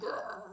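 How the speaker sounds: short throaty "grrr"; snarly imitation growl; mock growl. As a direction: imitate people growling at you. Imitating others growling at her.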